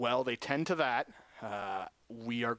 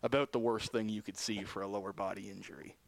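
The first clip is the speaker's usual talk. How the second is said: lower, softer voice with real sadness; getting emotional; 3 semitones lower, 3 dB quieter than usual. Real, not acted. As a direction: hold back tears for a teammate. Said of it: "sorry if I'm getting emotional".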